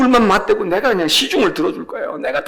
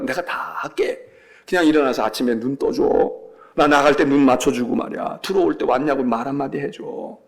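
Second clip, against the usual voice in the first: tender plea to spouse; 5 semitones lower than usual. Acted. Voices spouse pleading tenderly.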